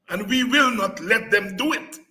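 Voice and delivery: usual speaking voice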